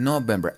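November read as "no-bem-ber"; literal reading. Shown as a demonstration. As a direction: say November just as written, Spanish-style. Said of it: "Así, literal". (November literal, como se escribe)

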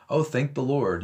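a throwaway everyday phrase; casual exclamation. Retold or imitated. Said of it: "we use the Lord for".

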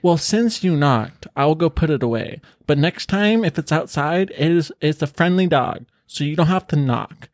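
mock put-out homeowner; imitated bitchiness. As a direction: imitate someone condescendingly explaining a rule. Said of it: "Being all kinda bitchy about it".

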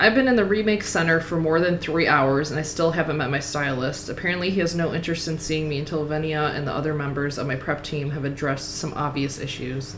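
even, measured audiobook reading; story narration. A narrator's reading. Reader narrating a waxing scene to her co-host, story narration. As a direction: read the prose out steadily. Reads the novel aloud.

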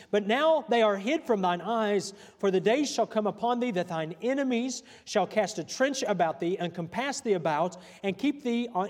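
preaching. Acted. Reads scripture in preaching voice.

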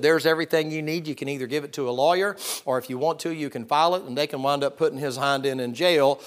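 loud, proud push of the evidence; telling the preacher off loudly and proudly; proud retort. Retold or imitated. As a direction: slap it down like you've won. Retold shoving folder at preacher.

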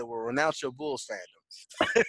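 drawn-out, slowed demand, laughing through it; slow laughing quote. Retold or imitated. Retelling his terms to his friend, slow and laughing. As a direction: savor the punchline, slowly, amused. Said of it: "I said".

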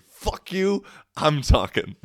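high-pitched playful outburst; mock defiant cut-off. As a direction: shut them down in a high mock voice. Mock podcaster silencing others.

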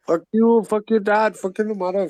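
mock angry. Angry trash-talk in voice chat.

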